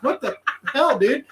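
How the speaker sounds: high, laughing what-the-hell at the bird; shocked and amused, voice jumps up; exasperated yelp. Retold or imitated. Tour guide yelling at a charging seagull, laughing disbelief. Seagull flies at his face.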